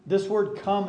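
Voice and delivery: "come" lifted high and loud; emphatic come. Shown as a demonstration. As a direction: land hard on the word "come". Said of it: "is an emphatic word".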